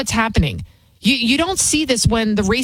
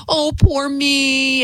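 mock self-pity; 6 semitones higher, much slower than usual.

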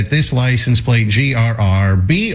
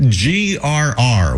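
spelling it out; much slower than usual. Shown as a demonstration. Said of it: "If what, what".

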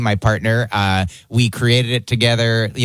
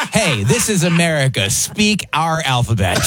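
slightly higher, hammed-up patriotic protest; mock indignation; 4 semitones higher than usual. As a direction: playfully scold with mock outrage. Mock patriotic scolding of a heckler.

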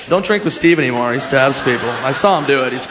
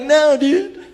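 blunt dismissive; 11 semitones higher than usual. Retold or imitated. Voicing drunk Steve.

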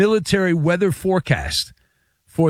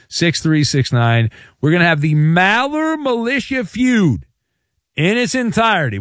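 radio host promo; 3 semitones higher than usual. Acted. Host promos upcoming game.

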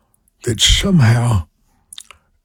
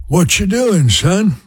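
much higher Louisiana mother's voice, imitated; Louisiana accent; 9 semitones higher than usual. Imitating his Louisiana mother calling her son, high Louisiana accent. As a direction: pitch way up, mimic mom's Louisiana call. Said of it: "a little accent there probably".

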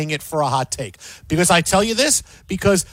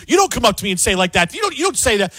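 mock indignation; 3 semitones higher, faster than usual. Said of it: "They're saying".

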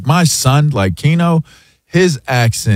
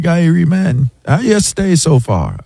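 higher, imitating a Jamaican accent; Jamaican accent imitation; 6 semitones higher than usual. Asian pilot greeting a passenger in a Jamaican accent. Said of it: "and he was like".

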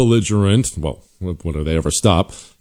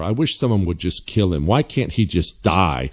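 mock Democrat. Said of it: "what they openly wish for".

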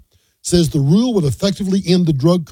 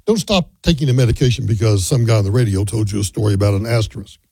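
low-pitched, sincere caution; earnest; 7 semitones lower than usual. Real, not acted. Radio host cautioning listeners about their medication, earnest. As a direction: lower the voice and mean it. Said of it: "I mean this".

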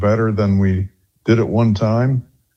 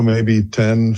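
usual speaking voice

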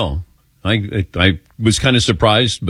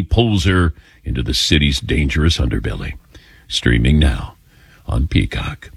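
announcer voice. Shown as a demonstration. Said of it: "Less dramatic voice".

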